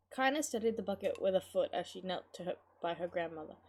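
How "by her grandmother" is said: ordinary delivery, nothing marked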